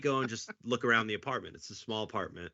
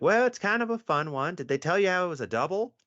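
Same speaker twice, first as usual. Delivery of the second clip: teasing cheer; 7 semitones higher, 4 dB louder than usual. Retold or imitated. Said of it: "And they're like".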